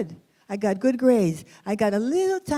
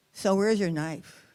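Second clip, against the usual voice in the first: rude question; 2 semitones lower, 3 dB quieter, slower than usual. Retold or imitated. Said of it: "if they were really rude".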